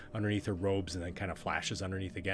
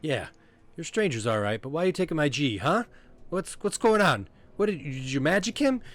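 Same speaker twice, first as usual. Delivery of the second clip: high, loud, demanding questions; suspicious small Corky; 8 semitones higher, 9 dB louder than usual. Acted. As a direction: challenge strangers in a high-pitched little voice. Corky interrogates the strangers.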